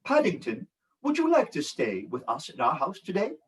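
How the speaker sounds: put-on demonstrating British for children; storybook British accent. Shown as a demonstration. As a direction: model a British accent, a little softly. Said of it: "can you speak with a British accent".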